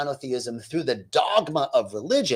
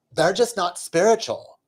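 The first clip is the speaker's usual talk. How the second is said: higher, affected skit-like delivery; mock neighbor talk; 6 semitones higher than usual. Neighbor telling her friend about boyfriends, mock-smug. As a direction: imitate a smug gossiping neighbor. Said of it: "the one woman says".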